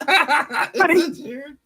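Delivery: slow, high, laughing repeat. Real, not acted. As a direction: stretch it out through laughter.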